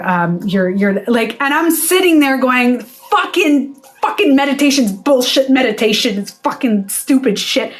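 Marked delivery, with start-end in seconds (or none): 2.8-7.7 angry. Acted. Meditator after bad news, retold angry rant. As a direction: act out frustrated swearing. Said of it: "I was so angry".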